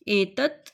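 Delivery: एतत् with the last त cut short, no vowel; half-sounded final t. Shown as a demonstration. Teacher showing students the halant ending, clipped. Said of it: "पीछे देखिए त हलंत है".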